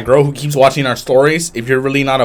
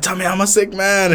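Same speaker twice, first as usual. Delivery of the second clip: put-on higher, louder drunk plea; drunk loud demand; 7 semitones higher than usual. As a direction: insist on it loudly like a drunk. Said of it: "and I was like".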